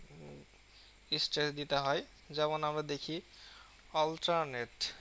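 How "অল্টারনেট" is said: "অল্টারনেট" with weight on the opening "all"; "অল্টারনেট", strong start and lighter ending; stress on first syllable. Shown as a demonstration. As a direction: press the first syllable of "অল্টারনেট", ease off on "নেট". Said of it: "all এর উপরে বেশি".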